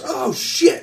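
put-on high, alarmed kid voice; Arlo. Kid spots an anchored ship, alarmed. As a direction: exclaim as a youngster spotting trouble. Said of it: "Arlo goes".

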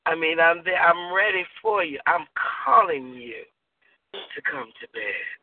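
calling a lover to bed in a sultry murmur; seductive invitation. Acted. Seductive call to partner.

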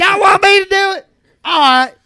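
lightly hammed-up celebrity voice, feigned surprise; a pop star's voice. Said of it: "Hey, the singer here".

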